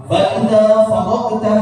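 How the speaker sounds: "faragta" with a hard G for ghain; wrong reading. Shown as a demonstration. Teacher shows the substitution to avoid, hard G in "faragta". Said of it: "Jangan diganti pakai".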